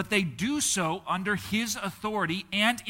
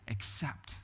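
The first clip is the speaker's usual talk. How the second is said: ordinary talk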